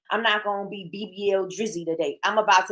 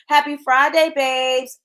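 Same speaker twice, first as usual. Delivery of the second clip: cheery quoted greeting; 7 semitones higher, 5 dB louder, slower than usual. Retold or imitated. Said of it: "Miss Deltra said".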